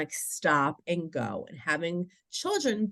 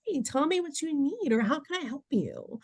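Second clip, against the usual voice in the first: higher, softened helper voice; gentle coaxing; 8 semitones higher, 3 dB quieter than usual. Shown as a demonstration. Adult asking a crying child what they need, gently coaxing. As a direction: gently offer help to a little one.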